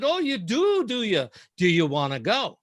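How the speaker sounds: high swooping Scottish "oh", dropping back down; Scottish accent. Retold or imitated. Scottish editor challenging the reporter to go, Scottish accent. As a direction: imitate a Scottish editor calling the bluff. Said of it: "said in a thick Scottish accent".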